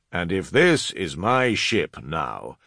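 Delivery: slow, hesitant, tailing away; trailing off. Acted. New commander faltering beside a fallen colleague, trailing off. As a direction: let the thought fade unfinished. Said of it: "His voice trailed off".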